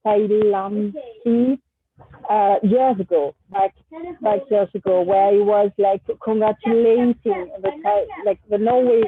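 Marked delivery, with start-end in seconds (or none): none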